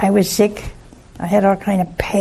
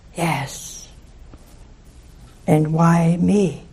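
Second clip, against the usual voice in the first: very slow, gentle, sighing delivery; 3 semitones lower than usual. Recalling praying in chapel and hearing a reply, imitating a gentle sighing voice. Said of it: "And he said with a sigh".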